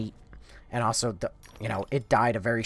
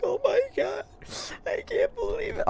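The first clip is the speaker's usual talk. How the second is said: very high mock whimper; distraught crying. Woman in shock over the hit cat, mock crying. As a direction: whine it out like a hammed-up weeping woman. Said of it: "she's losing her mind, and she's crying".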